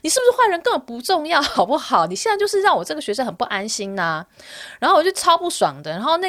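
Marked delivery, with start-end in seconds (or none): 0.0-4.3 raised, indignant scolding; angry retort. Retold or imitated. Scolding the drunk landlord for scaring her student, raised and indignant. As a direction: tell him off for scaring the student. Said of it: "然后我想说".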